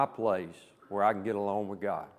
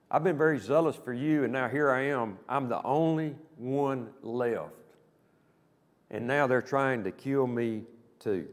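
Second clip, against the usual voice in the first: self-pitying Elijah. Retold or imitated. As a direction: let the prophet wallow in self-pity, slowing down. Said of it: "Can you feel the emotion in Elijah's voice?".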